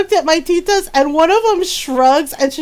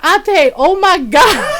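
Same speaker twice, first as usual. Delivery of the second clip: imitated dismay; 3 semitones higher, 4 dB louder, slower than usual. Brother reacts to Lola forgetting Lilo.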